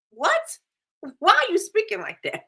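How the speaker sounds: high-pitched incredulous questioning; mock disbelief. Vlogger reacts to an actress's odd speech, high mock disbelief. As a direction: squeak it out, baffled by how she talks.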